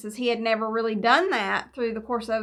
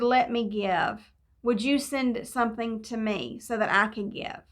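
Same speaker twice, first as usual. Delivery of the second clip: earnest retold prayer. Speaker recalls asking her Heavenly Father to let her give, earnest prayer.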